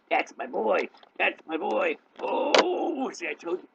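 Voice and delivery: high, loud cooing over a pet; delighted pet talk. Real, not acted. Owner praising a cat for coming over, delighted high pet talk.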